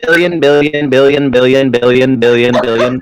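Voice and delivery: robotic synthesized voice; lightly mimicking a speech synthesizer; Stephen Hawking. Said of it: "this is Stephen Hawking".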